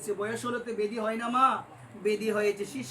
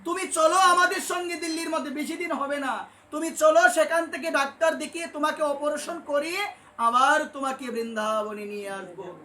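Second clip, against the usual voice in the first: earnest pleading disciples; 5 semitones higher, 4 dB louder than usual. Retold or imitated. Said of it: "তারা নিবেদন করে বলছে".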